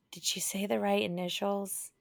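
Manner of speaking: raspy phone operator voice; a little growl and grit. Real, not acted. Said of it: "Your voice kinda sounds like a raspy".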